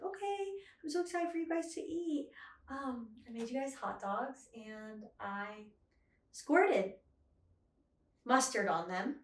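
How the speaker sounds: a hint of an oddly excited improv character. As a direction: play an overeager improv host. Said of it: "a sexual character at improv".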